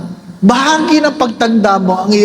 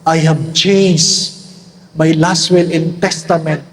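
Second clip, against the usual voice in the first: put-on sly old man; 5 semitones lower, slower than usual. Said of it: "Sabi ng matanda".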